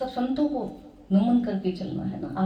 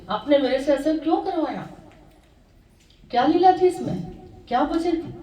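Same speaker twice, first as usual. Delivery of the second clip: higher-pitched, questioning plea; lightly acted goddess appealing to her lord, rising in pitch and force; Parvati; 4 semitones higher, 3 dB louder than usual. Goddess asks her lord why he caused this, lightly acted questioning plea. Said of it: "तब तक होश आया थोड़ा सा, तो बोले".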